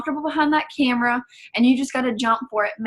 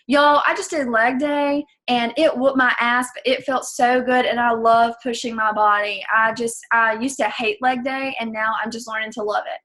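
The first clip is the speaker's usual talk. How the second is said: upbeat, lively telling; passionate. Shown as a demonstration. Coach telling her story followers about leg day, excited. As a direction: sell the workout like it thrilled you. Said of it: "so much nicer to listen to".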